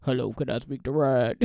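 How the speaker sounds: lightly mocked hoarse phone voice; husband's put-on husky hello, a little hammed up; mimicking husband's teasing. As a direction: imitate him imitating a congested caller. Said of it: "whenever I sound like this".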